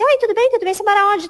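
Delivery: high, eager acted greeting; brisk interviewer. Interviewer greets a job applicant, brisk and high.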